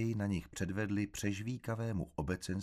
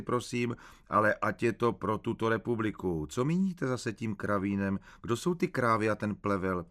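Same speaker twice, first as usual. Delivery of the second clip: a raised, pushy official grilling the suspect; hectoring interrogator; 3 semitones higher, 4 dB louder than usual. Acted. An official grills the narrator at interrogation, raised and hectoring. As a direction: push each question up and at him, lightly voiced.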